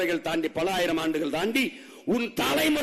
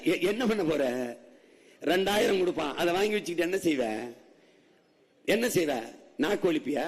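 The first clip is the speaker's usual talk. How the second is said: ordinary talk, nothing marked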